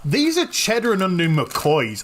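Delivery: mouth full. Real, not acted. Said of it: "too busy enjoying the crisps".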